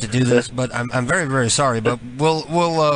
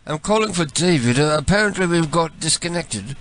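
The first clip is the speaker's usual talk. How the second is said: lightly put-on British voice; mock British accent; 2 semitones higher than usual. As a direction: play a polite British caller. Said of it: "switch to my British voice".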